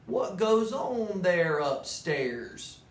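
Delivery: slow, worried moose calling up; a hint of a bewildered moose; puzzled moose. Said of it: "called out poor Thidwick".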